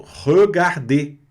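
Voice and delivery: Regarder drawn out slowly, closed final e; slow French regarder. Shown as a demonstration. Teacher slowly modelling Regarder for students. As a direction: spell out Regarder slowly by sound. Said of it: "pronúncia fechada aqui do E".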